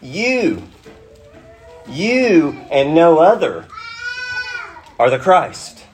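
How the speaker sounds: "you" high and drawn out, repeated after a pause; slow, weighty "you and no other", pauses between phrases; emphatic YOU. Shown as a demonstration. Preacher rendering Peter's confession as in Greek, emphatic "you". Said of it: "This is what it sounds like in the Greek".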